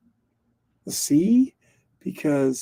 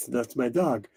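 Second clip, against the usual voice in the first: softer, lower mock-French punchline; joke punchline; 3 semitones lower, 7 dB quieter than usual. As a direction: quietly drop the punchline. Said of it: "the punchline is".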